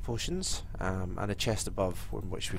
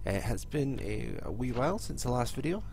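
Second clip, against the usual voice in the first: stuffy voice from a head cold; nasal cold voice. Real, not acted. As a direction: talk through a blocked nose. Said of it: "apologise for my voice and my nasally, uh, voice sound".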